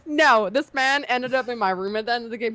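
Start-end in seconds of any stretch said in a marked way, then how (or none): 0.1-0.5 high, loud no; mock scream. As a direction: yell it in mock panic. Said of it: "I started screaming".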